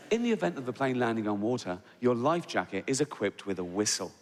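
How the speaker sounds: soothing flight attendant voice; calming safety announcement. Retold or imitated. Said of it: "they say".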